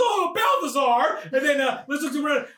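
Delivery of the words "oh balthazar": mock dismayed cry. Acting out a cry over Balthazar.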